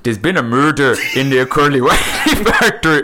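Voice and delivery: laughing through a Scottish accent attempt; Scottish accent with laughter breaking in. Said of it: "in a Scottish accent".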